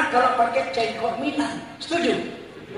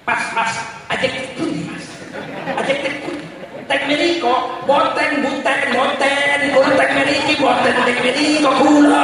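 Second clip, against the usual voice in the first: Javanese words in a blunt Batak accent. Shown as a demonstration. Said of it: "Coba bahasa Jawa pakai logat Batak".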